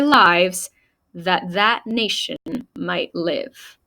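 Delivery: measured, solemn recitation with pauses; formal speech reading. Acted. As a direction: read it out like an orator, phrase by phrase. Reads the speech aloud.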